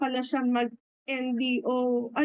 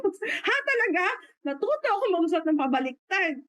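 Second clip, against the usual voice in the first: mataas at mabilis na gulat; nagulat na tanong; 6 semitones higher, faster than usual. Retold or imitated. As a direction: parang hindi makapaniwala, mataas. Gulat na sagot sa kuwento. (gulat na sagot, mataas ang tono)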